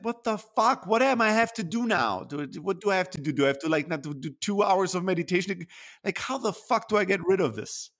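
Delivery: high, pressed complaint, getting fed up; irritated rant. Retold or imitated. Sick of his jaw pain, an irritated rant. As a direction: vent at yourself, annoyed and impatient. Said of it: "That's my attitude and energy".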